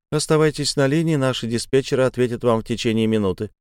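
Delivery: even recorded operator voice; phone menu voice. Acted. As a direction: read it like an automated phone line. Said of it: "ровным голосом автоответчика".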